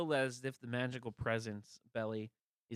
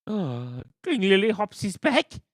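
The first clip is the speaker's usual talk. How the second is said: guard voice; 9 semitones higher, 15 dB louder than usual. Acted. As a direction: bellow like a pompous royal guard. Guard reacts, alarmed.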